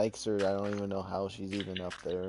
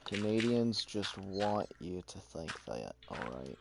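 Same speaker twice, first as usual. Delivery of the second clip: slow repeat; 5 dB quieter than usual. Real, not acted. Insisting to a friend about Canadians, slowly and deliberately. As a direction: spell it out slowly, then sink on the tag.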